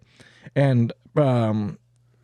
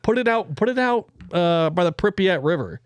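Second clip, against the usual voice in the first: exasperated; 5 semitones higher than usual. Retold or imitated. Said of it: "somebody along the way was like".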